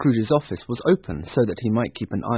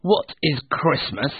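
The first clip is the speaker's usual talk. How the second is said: slow, higher, sneering question; scornful Scrooge; 4 semitones higher than usual. Acted. Scrooge challenging his nephew, scornful. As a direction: draw out the question with disdain. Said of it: "said Scrooge".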